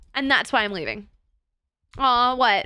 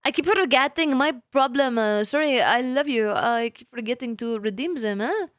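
put-on French accent; playful, hammed-up French accent. Streamer fumbling a viewer's channel redeem, in a mock French accent. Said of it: "Why can't I redeem French accent?".

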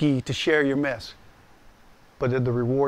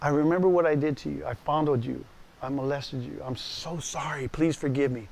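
tearful apology. Retold or imitated. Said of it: "I said".

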